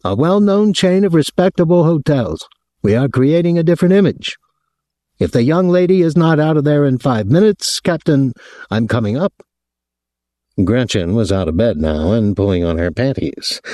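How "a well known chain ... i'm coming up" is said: high-pitched, aggrieved hotel official; aggrieved man. A narrator's reading. Hotel man phoning a guest about his visitor, aggrieved. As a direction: put on a high, officious voice of complaint.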